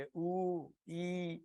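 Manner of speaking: soft, drawn-out mock moaning; sick person's moans. Shown as a demonstration. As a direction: groan quietly like a patient. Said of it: "اس طرح کی آواز نکل رہی ہوتی ہے".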